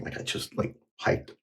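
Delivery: breathless, huffing between words; puffing as if after a long hike; out of breath. Real, not acted. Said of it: "I feel like I'm huffing and puffing".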